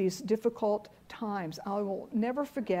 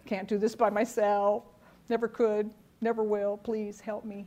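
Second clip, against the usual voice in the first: humble prayer. Acted. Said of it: "How about humility?".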